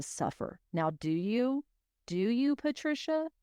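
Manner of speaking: lightly voiced sly guilt-trip; mock manipulative. Host mocking the caller's guilt-trip at Patricia, lightly sly. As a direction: coax her with a hint of menace, not much changed from own voice. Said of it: "how my brain translated that was".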